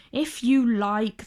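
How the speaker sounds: grudging. Acted. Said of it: "they said grudgingly".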